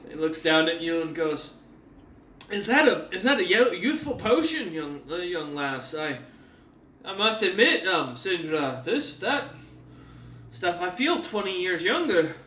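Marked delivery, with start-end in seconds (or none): 2.5-12.4 higher, louder, marvelling at the potion; amazed old man. Acted. Rejuvenated crewman to Sindra, amazed and louder. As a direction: sound reborn and astonished.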